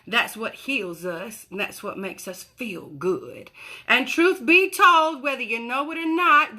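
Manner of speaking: Honey. Acted. Continues in Honey's voice.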